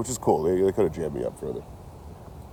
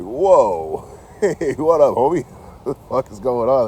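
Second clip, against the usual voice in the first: laughing mock greeting; 7 semitones higher, 8 dB louder, slower than usual. Greeting the cop, laughing nervously.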